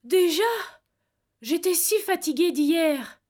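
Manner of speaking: a lightly voiced young woman, slow and drowsy; sleepy young woman. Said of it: "Une voix de femme répondit".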